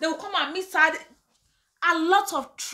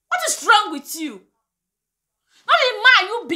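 slow angry scold; 5 semitones higher, 4 dB louder, slower than usual. Real, not acted. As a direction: drag it out slowly, loud and high, scolding. Scolding the in-laws directly.

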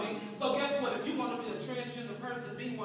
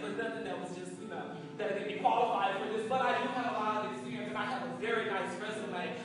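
soft, polite, lowered voice; timid applicant; 3 semitones lower, 5 dB quieter than usual. Acted. Job applicant asking employer about openings, timid and soft. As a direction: ask carefully, hoping to be considered.

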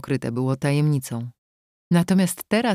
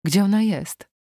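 higher, agitated question, pressed on ONA; nervous; 4 semitones higher than usual. A narrator's reading. Trembling wife repeating her question to her husband, nervous. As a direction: ask it nervously, voice lifting. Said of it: "powtórzyła nerwowo, trzęsąc się coraz bardziej".

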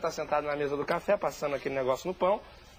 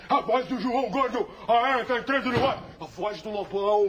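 higher, rough laughing impersonation; rock singer voice impression; 4 semitones higher than usual. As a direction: growl like an old rocker. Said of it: "Pela voz".

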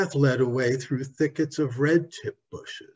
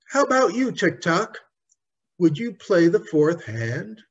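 put-on eager girl; 5 semitones higher, 3 dB louder than usual. Dorothy asks Tick-Tock to play.

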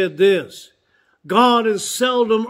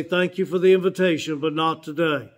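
lower, softening polite decline; cordial refusal; 4 semitones lower, 3 dB quieter, faster than usual. Retold or imitated. Brother declining a church invitation, cordial. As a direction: politely turn it down, easing off softer. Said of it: "would always cordially say".

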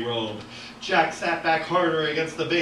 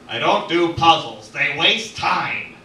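loud, higher, slowing declaration; emphatic objection; 4 semitones higher, 8 dB louder, slower than usual. Acted. The author objecting to puzzles, loud and emphatic. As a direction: protest with drawn-out final words.

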